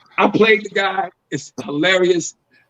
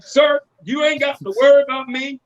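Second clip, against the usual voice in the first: mock Southern accent; 3 semitones higher than usual. Talking to cops in the South, mock Southern accent. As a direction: talk like a Southern good old boy. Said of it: "I'm talking like them".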